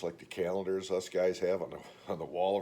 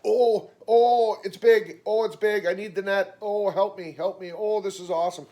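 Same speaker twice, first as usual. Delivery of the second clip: much higher and louder, giddy over a big fish; excited squealing; 11 semitones higher, 10 dB louder than usual. Retold or imitated. Imagining Scrunch landing a big fish, giddy and much louder. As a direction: gush like she just hooked a monster. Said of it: "if Scrunch got into that".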